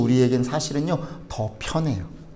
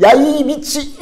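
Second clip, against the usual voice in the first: high-pitched curse, cut off short; acted flare of temper; hot-tempered outburst; 11 semitones higher, 4 dB louder, much slower than usual. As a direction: start to swear at someone, then stop. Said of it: "승질내로라면".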